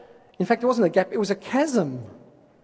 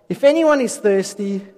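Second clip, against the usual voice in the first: loud voice; 3 semitones higher, 6 dB louder than usual. A narrator's reading. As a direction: proclaim it loudly to a crowd. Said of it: "said in a loud voice".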